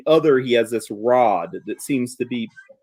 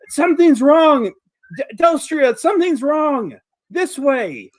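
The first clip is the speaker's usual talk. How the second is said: through a wall; 12 semitones higher, 5 dB louder than usual. Acted. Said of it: "muffled voice from the other side".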